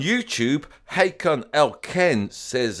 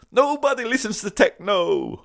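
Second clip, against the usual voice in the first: high-pitched quoted cry; imitated lyric in a raised, high voice; mock rallying cry; 12 semitones higher, 4 dB louder than usual. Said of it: "that great cry of".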